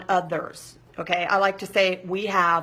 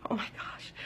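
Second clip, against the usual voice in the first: breathy panicked whisper of Oh my gosh; anxious whisper; 14 dB quieter than usual. Retold or imitated. Panicked inner thought, whispered.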